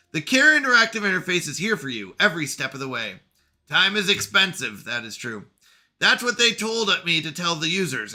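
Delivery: lightly voiced bitter machine intelligence; AI character voice.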